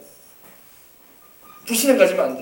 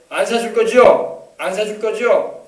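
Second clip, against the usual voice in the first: put-on doubting child; slower than usual. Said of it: "이렇게 말을 해버려요".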